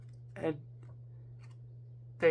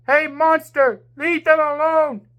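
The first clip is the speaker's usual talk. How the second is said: higher, louder challenge; shout; 6 semitones higher, 5 dB louder than usual. A narrator's reading. James shouting a challenge at the monster. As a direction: yell to draw the monster off.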